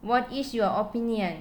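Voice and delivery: slowed down, words clearly parted; slow model sentence. Shown as a demonstration. Teacher to students reading an example, slowly. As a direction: read it slowly for the class. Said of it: "ตัวอย่าง".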